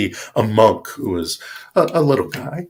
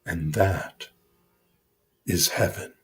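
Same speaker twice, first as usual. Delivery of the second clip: soft reveal; 4 semitones lower, 11 dB quieter than usual. Acted. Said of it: "the monk points at him and says".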